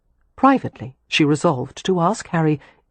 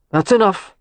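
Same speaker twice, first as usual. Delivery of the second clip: louder, curt cut-off; brusque; 4 semitones higher, 5 dB louder than usual. A narrator's reading. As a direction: shut the talk down brusquely. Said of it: "Leo interrupted brusquely".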